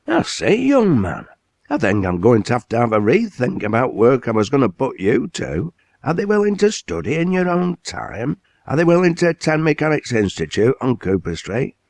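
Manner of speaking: tower over him with a big hearty voice; booming mill owner. Acted. Owner impressed, quizzes lad.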